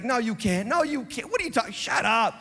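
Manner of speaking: high, mocking no you can't; dismissive brother. Brother dismissing David's offer to fight, mock high. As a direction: brush David off with a sneer. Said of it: "And he's like".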